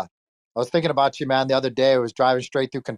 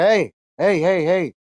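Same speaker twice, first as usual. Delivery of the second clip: calling out; 6 semitones higher, slower than usual. Retold or imitated. Retold guy calling out on street.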